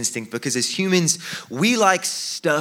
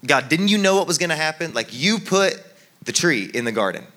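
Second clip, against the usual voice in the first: higher, mildly indignant protest; blaming God; 4 semitones higher than usual. Acted. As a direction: challenge God, leaning on "you". Adam acted out accusing God.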